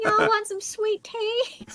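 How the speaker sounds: slow, high Southern drawl, hammed up; exaggerated high Southern drawl; atrocious Southern accent. Shown as a demonstration. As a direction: draw it out in a bad Southern accent. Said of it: "my Southern accent's so atrocious".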